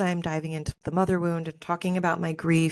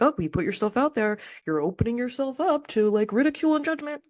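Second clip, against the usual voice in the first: mocking voice; 7 semitones higher than usual. Mocking society's attitude.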